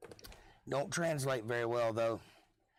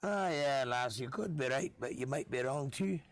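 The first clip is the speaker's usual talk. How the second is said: put-on Scottish accent. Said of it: "I could just talk in accents".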